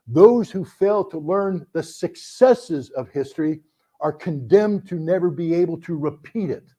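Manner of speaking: slow, deliberate rewording of the maxim; slow emphatic maxim. Shown as a demonstration. Speaker rewording the maxim for the audience, slow and deliberate. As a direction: lean into each word slowly. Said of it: "I'll give you a modification".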